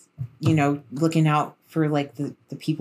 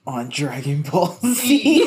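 laughing joke; 4 dB louder, slower than usual. Real, not acted. Joking sign-off, laughing.

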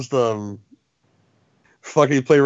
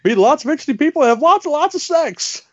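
Velvet Jones pitch; 9 semitones higher than usual. Retold or imitated. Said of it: "Come and get my new book".

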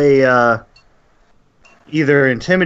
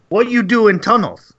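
goblin voice; 8 semitones higher than usual. Acted.

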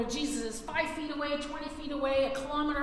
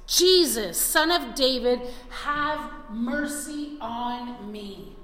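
a louder call of Jesus, Son of David; mild retold shout; 3 dB louder, slower than usual. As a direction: call out, half-voiced. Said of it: "he began to shout".

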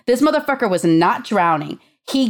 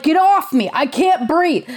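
mocking panic; 7 semitones higher than usual. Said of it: "And he's like".

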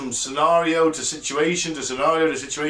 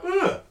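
short high "ugh"; high-pitched squirm of a noise; retold uneasy noise. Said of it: "So I was kind of like".

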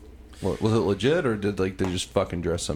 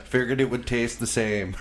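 sheepish lizard excuse; 5 semitones higher, 4 dB louder than usual. Retold or imitated. Lizard excuses eating cats.

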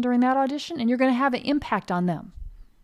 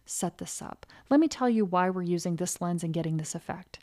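mentor; 5 dB quieter than usual. Retold or imitated. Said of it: "Getting mentored".

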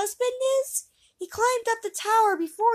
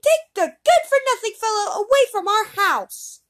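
much higher, much louder shrieking woman; loud screams; 13 dB louder than usual. Acted. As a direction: scream the accusation at him. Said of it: "with loud screams".

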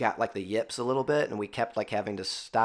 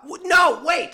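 a much higher, louder "wait!" as it dawns; sudden realization; 7 dB louder, slower than usual. Real, not acted. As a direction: cut yourself off with excitement. Realizing the jersey number.

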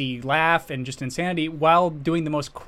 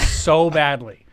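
laughing; 6 dB louder, slower than usual. Real, not acted. Laughing while wishing.

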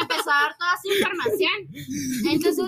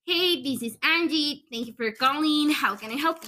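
call center greeting. Retold or imitated. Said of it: "estaba como que".

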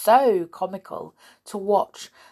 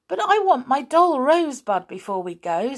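put-on high, louder child's protest; pleading girl; 7 semitones higher, 5 dB louder than usual. A narrator's reading. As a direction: insist like a small girl wanting her doll. Little girl pleads for her doll.

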